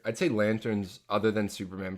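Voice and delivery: usual speaking voice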